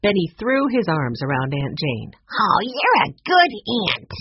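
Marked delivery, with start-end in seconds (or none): 2.4-4.1 put-on high, loud, gushing boy voice; delighted child. A narrator's reading. Young boy hugging his aunt, delighted. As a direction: gush with gratitude, high and loud.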